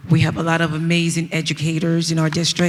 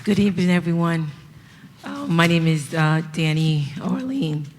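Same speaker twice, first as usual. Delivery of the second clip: hoarse, strained voice; speaking with a lost voice. Real, not acted. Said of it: "as you can hear, I lost my voice".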